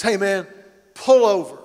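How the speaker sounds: loud, threatening call to pull over; mock road-rage yell; angry driver shout. Angry driver voiced in story.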